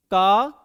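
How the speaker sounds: का loud from the throat; sound demo. Shown as a demonstration. Teacher repeating the throat sound का for pupils, loud. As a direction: punch out का from the throat. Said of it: "हमारा कंठ से निकला".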